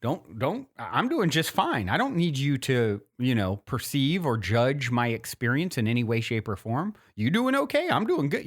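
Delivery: breezy and self-assured, rising on the question; man's unbothered vibe. Retold or imitated. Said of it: "that was the vibe".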